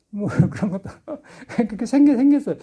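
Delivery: real laughter breaking into high-pitched words; laughing while talking. Real, not acted. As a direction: talk through your own laughter. 웃음이 터진 채 이야기함. (웃음이 터진 채로 말하기)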